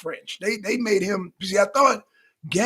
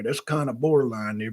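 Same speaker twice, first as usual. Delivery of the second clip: repeated lower; 6 semitones lower, 3 dB quieter than usual. Shown as a demonstration. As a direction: say it again, lower.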